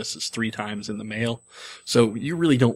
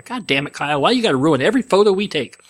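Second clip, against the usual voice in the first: mock-angry grandmother, climbing in pitch and volume; exasperated grandmother; 4 semitones higher, 4 dB louder than usual. Grandmother blaming Kyle for a ruined photo, mock exasperation. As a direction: build into an imitated scolding. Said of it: "That's what she was like".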